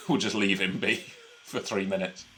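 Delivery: low, quiet mock announcement breaking into laughs; giggling through a mock puppet line; laughing mock hero. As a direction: try to keep a straight face as Scarlet and fail. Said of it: "Captain Scarlet will turn around and go".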